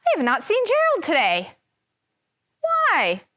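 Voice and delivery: a worried little pig asking; Piggy. Acted. Teacher reads Piggy wondering where Gerald is.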